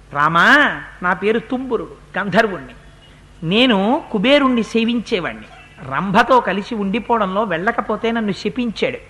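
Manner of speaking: dying demon pleading. Acted. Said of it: "వాడు అన్నాడు". (రాముడిని మెల్లగా వేడుకుంటున్న రాక్షసుడు)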